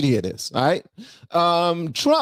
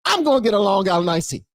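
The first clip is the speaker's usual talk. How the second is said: raised voice of a voter going wild; mildly hammed-up drink announcement; acted reckless voter; 5 semitones higher than usual.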